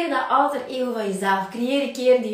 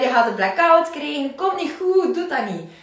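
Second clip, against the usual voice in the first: mock worry; 3 semitones higher than usual. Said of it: "En die zegt".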